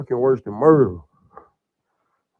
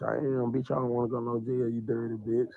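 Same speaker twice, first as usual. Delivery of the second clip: crying; 6 dB quieter than usual. Real, not acted. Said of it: "Sound like you crying".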